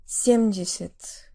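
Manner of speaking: Семьдесят stressed on the first syllable, the last two vowels reduced toward E; vowel reduction demo. Shown as a demonstration. Teacher showing learners the reduced vowels in Семьдесят slowly. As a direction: say Семьдесят slowly, SEM-dzhi-sit. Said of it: "stressed on the first syllable".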